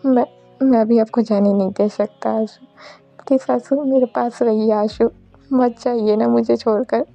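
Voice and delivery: lightly dramatized refusal to let go; acted desperate pleading. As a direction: beg your beloved to stay. Acted plea not to leave.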